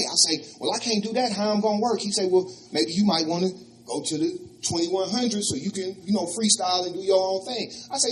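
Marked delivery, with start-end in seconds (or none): 0.6-2.0 indignant objection. Retold or imitated. 2.3-7.7 Rick suggesting. Retold or imitated. Rick suggests another shelter.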